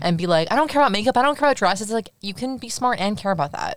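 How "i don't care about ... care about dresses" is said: higher-pitched imitation of a dismissive girl; mock dismissive. Mimicking girls told to be like boys, mock dismissive. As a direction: put on a scornful "not caring" voice.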